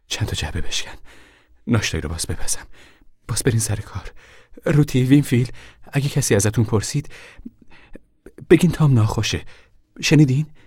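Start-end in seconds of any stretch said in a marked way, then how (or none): 4.7-10.5 high, loud, urgent orders; stern warning. Acted. Mother warns children to keep their brother's secret, sternly. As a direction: raise your voice and make the children listen.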